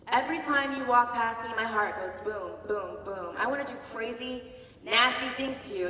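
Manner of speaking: slightly mock a creepy come-on; a hint of a lecherous officer. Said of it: "and he goes".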